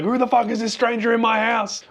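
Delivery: high, far-off angry dog voice; hammed-up dog challenging an intruder; dog's voice. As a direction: play the dog growling at a stranger. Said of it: "She was like".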